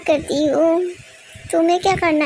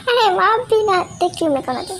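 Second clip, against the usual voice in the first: laughing. Acted. Laughs while speaking.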